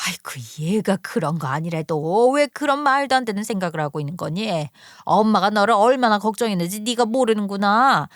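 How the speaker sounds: lightly voiced flustered mother; understated motherly protest; placating mother. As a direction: deny it and try to reassure your daughter.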